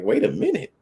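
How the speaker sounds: high-pitched incredulous protest; mock disbelief. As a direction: squeak it out like you can't believe the demand. Acted stunned man refusing the demand.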